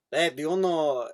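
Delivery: lightly put-on cartoon Mexican accent; singsong cartoon Mexican accent; Speedy Gonzalez. Comedian telling an old cartoon joke, Speedy Gonzalez accent. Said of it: "doing an impression of, of Speedy Gonzalez".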